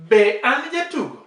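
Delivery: AN swept up high, then JATUGO drops; sweet intonation. Shown as a demonstration. Teacher showing off the question tune to her learner, sweet intonation. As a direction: ask Be an jatugo with a high peak on AN. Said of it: "See the way mine is sweet".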